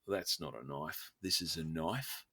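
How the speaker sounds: a lightly done Crocodile Dundee drawl, slow; Paul Hogan impression. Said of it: "That's my best, uh, Paul Hogan impersonation".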